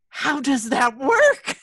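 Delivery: amazed. Retold or imitated. Amazed the crying stopped.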